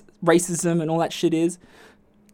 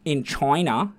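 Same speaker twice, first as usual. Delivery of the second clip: mock shopkeeper. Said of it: "She said it like that".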